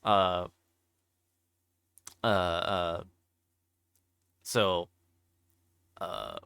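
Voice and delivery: ordinary talk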